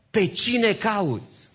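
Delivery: "cine" high, loud and drawn out; ringing question peaking on "cine"; stress on CINE. Acted. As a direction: hit the word "cine" hard and slowly. Emphatic quote, contrasted with next line.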